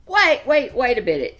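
high, loud calls of wait; urgent call. A narrator's reading. Rabbit stops the lion at the riverbank, calling urgently. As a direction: call him back in a hurry. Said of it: "he said".

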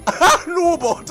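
shouted laughing hello; loud greeting. Real, not acted. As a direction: call out "Hallo" with a laugh. Greeting game boss loudly. (lauter Gruß)

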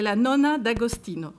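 Italian words in an amateur Italian accent; lightly Italianise the grandmother's title and name; a touch of Italian pronunciation. Shown as a demonstration. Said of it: "excusez-moi pour mon accent italien".

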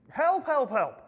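mock cries for help, high then tiring; crying for help. Man dangling from a branch, weary mock cries for help. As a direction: call for help, fading on the last one. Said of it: "he's just crying for help".

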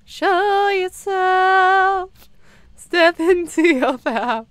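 slow, high, drawn-out hammy inspiration; mock motivational guru. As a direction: preach it like a self-help coach. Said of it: "I'm sorry. I had to".

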